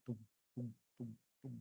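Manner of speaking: soft, low imitated percussion taps; short muted thuds, like tapping a thigh; deep dull thuds. Shown as a demonstration. Teacher showing dull percussion, soft deep thudding sound. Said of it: "It's a deep sound".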